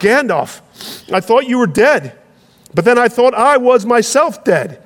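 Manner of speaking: Sam waking to find Gandalf alive; breathless wonder. Acted. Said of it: "At last he gasped".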